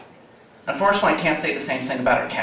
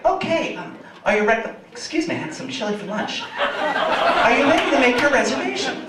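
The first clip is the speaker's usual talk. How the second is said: high automated-agent voice with human stumbles; Julie; 8 semitones higher than usual. Retold or imitated. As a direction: imitate a too-real phone assistant. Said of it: "Julie's just like".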